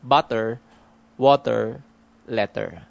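"butter, water, letter" slowly, syllables evened out, unflapped T. Shown as a demonstration. Speaker demonstrating Manila English, "butter, water, letter" with even syllables. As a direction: give both syllables of "butter, water, letter" equal weight. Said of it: "So they would sound like".

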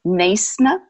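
Neisner in an Afrikaans accent, NAYS-nuh; Afrikaans-accented Neisner with a hissed S. Shown as a demonstration. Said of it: "In Afrikaans accent".

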